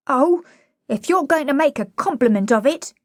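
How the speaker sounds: put-on high-pitched, saucy cockney girl; indignant flower girl. Flower girl standing up to Higgins, indignant. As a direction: protest in a high cockney girl's voice.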